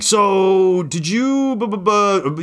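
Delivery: lightly mimicked nosy question, pitched high; mock prying. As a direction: imitate someone fishing coyly, tailing into babble. Mimics people prying after his post.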